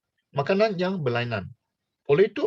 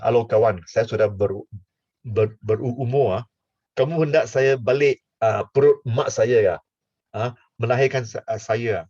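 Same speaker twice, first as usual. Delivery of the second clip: put-on old Nicodemus; 6 semitones lower than usual. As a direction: creak it out like an old man. Acting old Nicodemus again.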